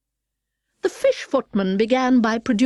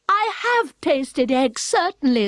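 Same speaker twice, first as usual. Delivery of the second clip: put-on slightly higher, slow girl voice; a truthful child, a touch pitched up; mild girl voice; lightly voiced Alice; 6 semitones higher, slower than usual.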